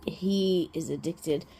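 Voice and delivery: slow whispered aside. Real, not acted. Telling viewers about her dog, whispered. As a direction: let it slip out in a secret whisper.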